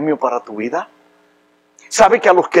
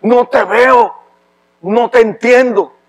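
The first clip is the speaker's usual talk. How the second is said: tearful prayer; 5 semitones higher, 3 dB louder, slower than usual. Retold or imitated. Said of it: "en el baño llorando le decía".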